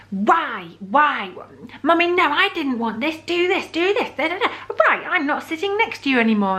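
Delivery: high, whiny imitation of a bossy little girl; imitating a bratty, demanding small child; demanding five-year-old. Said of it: "in that really demanding five-year-old way".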